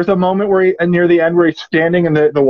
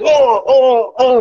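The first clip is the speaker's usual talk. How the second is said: disgusted groaning; 7 semitones higher, much slower than usual. Retold or imitated. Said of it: "He's like".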